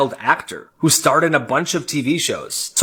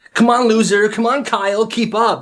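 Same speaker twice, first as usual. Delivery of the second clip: coach yelling; 6 semitones higher than usual. Acted. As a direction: drive him on like a drill sergeant. Gym coach yelling at kid.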